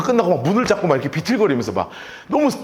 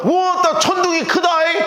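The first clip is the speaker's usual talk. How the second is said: awed crowd; 8 semitones higher than usual. Acted. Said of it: "뭐라 그러냐면".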